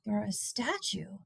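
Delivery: soft whispered ending. A narrator's reading. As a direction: trail off into a whisper. Sad boy alone at night.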